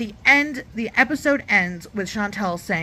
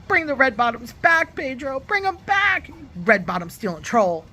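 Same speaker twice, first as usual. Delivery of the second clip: mock calling out; 5 semitones higher than usual. Vlogger scolding Pedro through the screen, mock yell. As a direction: pretend yelling at Pedro, higher, with a mock-angry edge.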